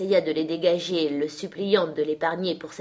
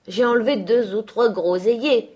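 raised, louder confession; owning up; 5 semitones higher, 7 dB louder than usual. A narrator's reading. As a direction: own up to the master, lightly voiced young man. Young man confesses to angry master.

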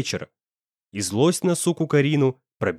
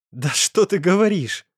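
cruel smirk; 6 semitones higher than usual. A narrator's reading. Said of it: "Жестоко усмехнулся Карим".

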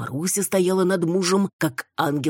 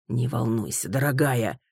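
unconvincing reassurance; 3 semitones lower than usual. Acted. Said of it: "попытку успокоить жену ... не очень убедительная".

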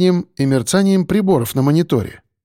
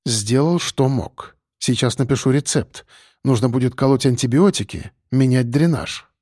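dryly. Acted. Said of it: "сухо произнёс".

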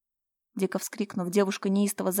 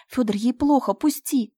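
higher, louder frantic cry; wild shriek; 5 semitones higher, 7 dB louder than usual. Acted. Slava screams at Fyodor to let her go. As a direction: shriek for help. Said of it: "дико вскрикнула и заверещала".

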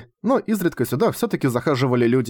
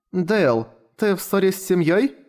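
put-on high small child's voice, a timid question; lightly voiced young girl; little girl asking; 6 semitones higher than usual. A narrator's reading. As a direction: ask him gently as a shy girl.

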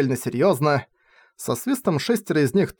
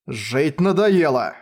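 cold question; much slower than usual. Acted. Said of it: "холодно спросил он".

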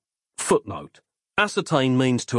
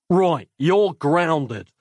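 slow, hoarse croak; a winded father's slow croak; croaked hoarsely; 4 semitones higher, 3 dB louder, much slower than usual. Acted. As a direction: scold through a crushed throat. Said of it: "he croaked hoarsely".

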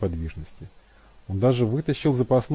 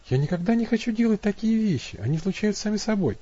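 put-on much higher, girlish plea; voiced Abby, pleading; 11 semitones higher than usual. A narrator's reading. Abby protesting to Matt, high helpless plea. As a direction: make her sound small and helpless.

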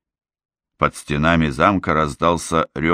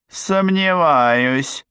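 hissed doubt; 10 semitones higher, much slower than usual. Acted. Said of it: "прошипела Глинда".

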